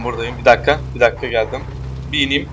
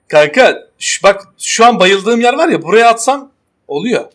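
excited; 5 semitones higher, 4 dB louder than usual. Real, not acted. Teammate blew up their car.

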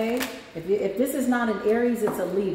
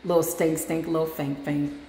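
condescending sass; 5 semitones lower than usual. Retold or imitated. Telling a hater to sit down, low and mock-sweet. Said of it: "I be like".

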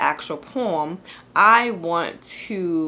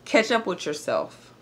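measured spoken-word poem recital with pauses; poem reading. Acted. Reads her poem aloud.

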